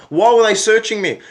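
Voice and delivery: indignant outburst. Real, not acted. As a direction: protest hotly at the pointless search. Outraged at being searched.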